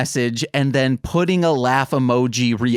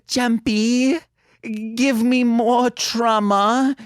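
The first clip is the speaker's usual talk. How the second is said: mock begging cohost; 10 semitones higher, much slower than usual. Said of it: "Nicole's like".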